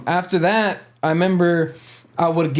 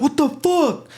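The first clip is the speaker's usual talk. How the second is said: retold scream; 9 semitones higher, slower than usual. Inmate screaming as he is hit, retold scream. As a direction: imitate his startled scream without full volume. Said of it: "and he screams".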